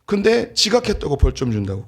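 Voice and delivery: high-pitched mock indignation; retold angry protest. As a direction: imitate an outraged son protesting. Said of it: "너무 화가 난 거예요". (화난 아들 흉내로 높게 항의하듯)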